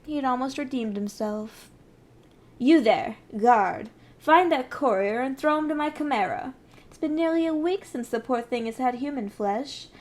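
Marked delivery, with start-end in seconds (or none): 2.6-6.5 louder commanding call to the guard; queen shouts for her guard. Acted. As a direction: bark the order across the hall.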